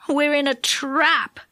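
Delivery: slow, dismayed groan. A narrator's reading. Joe realises they are trapped, groaning. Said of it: "groaned Joe".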